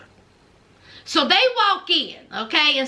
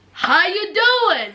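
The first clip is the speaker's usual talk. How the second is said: drawn-out, hearty mock greeting; acted greeting; slower than usual. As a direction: greet them slowly, playing the part. Acting out Anthony's greeting on arrival.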